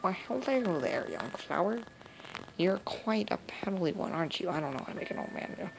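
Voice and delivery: lightly voiced old granny, sweet and folksy; a hint of a doting backwoods grandmother; old grandma voice. Granny greeting young visitor, lightly voiced old woman.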